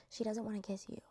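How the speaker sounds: pointed whisper. Real, not acted. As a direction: whisper it like an obvious truth. Stressing point about Shelly.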